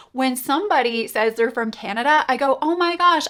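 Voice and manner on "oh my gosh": high, eager gasp of delight; light up at the news; excited. Retold or imitated. Greeting a prospect from Canada, thrilled.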